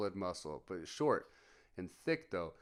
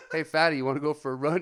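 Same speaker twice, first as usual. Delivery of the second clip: loud, higher, quick teasing; mock taunt; 5 semitones higher, 10 dB louder, faster than usual. Soldiers teasing buddy who failed tape test, taunting. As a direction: needle him loudly and fast, amused.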